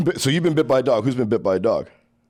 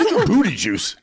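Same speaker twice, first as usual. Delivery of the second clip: laughing disbelief; 10 semitones higher, slower than usual. Real, not acted. Shocked at the booty juice story.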